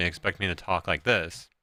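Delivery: put-on, deliberately deepened, forced deep masculine voice. Showing how people expect them to talk: forced deeper voice. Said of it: "trying to fucking deepen my voice".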